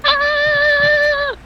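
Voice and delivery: sharp high "Ah!" correction yelp; sudden high exclamation. Real, not acted. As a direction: blurt out a high "Ah!". GM blurts mid description.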